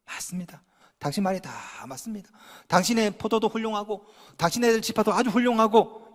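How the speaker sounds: very soft, humble yes; soft-spoken humble concession; meek agreement. Retold or imitated. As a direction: concede gently, almost under your breath. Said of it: "은근히 세워줍니다".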